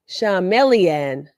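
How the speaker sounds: "Charmeleon" stretched slowly, every syllable long; slow careful "Charmeleon"; drawn-out Charmeleon. Shown as a demonstration. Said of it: "I didn't say Shamrellan".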